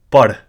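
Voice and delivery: "pad" said with a slight H and tone lift; tonal demonstration. Shown as a demonstration. Teacher demonstrating a Punjabi word, tonal "pad". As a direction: give "pad" a faint breathy H at the end. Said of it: "You might notice the slight".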